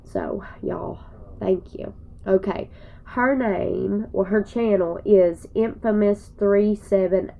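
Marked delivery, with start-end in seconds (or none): 0.0-1.9 breathy tearful whisper; real choked whisper. Real, not acted. Vlogger whispering to viewers, choked up. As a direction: whisper it through tears.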